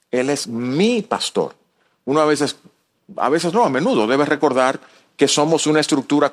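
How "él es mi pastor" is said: slow line with "mi" drawn out; stress on MI. Real, not acted. Preacher showing the personal bond with God, stress on "mi". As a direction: dwell on "mi" before "pastor".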